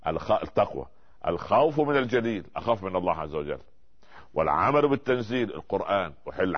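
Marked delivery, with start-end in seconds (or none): 1.3-2.5 dictating. Shown as a demonstration. Teacher tells students to write after him, dictating. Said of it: "اكتبوا خلفي". 4.3-5.5 dictating. Shown as a demonstration. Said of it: "اكتبوا خلفي".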